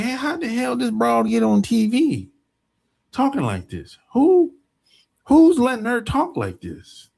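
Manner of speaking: mock disbelief, pitch jumping up on the questions; incredulous outrage. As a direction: demand it in high, indignant disbelief. Acted reaction to broad on TV.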